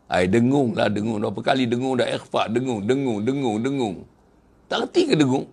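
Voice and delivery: teacher losing patience over dengung; irritated Quran teacher. Retold or imitated. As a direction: nag the pupil over his nasal sounds. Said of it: "Tu dah marah lah tu".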